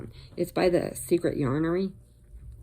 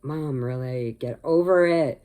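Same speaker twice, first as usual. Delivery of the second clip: exasperated daughter; 5 dB louder than usual. Retold or imitated. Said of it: "she's like".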